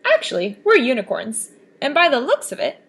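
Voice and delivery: cheerful unicorn breaking big news. Acted. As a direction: announce it proudly like a unicorn. Unicorns greet Kelp.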